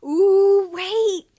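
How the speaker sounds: sudden high loud exclamation; excited. Acted. Luke catching a risky landing, excited outburst.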